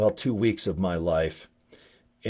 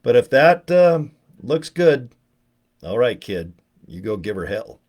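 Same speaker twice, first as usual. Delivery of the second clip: mock advice to a kid; 4 dB louder, slower than usual. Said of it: "and I'm like".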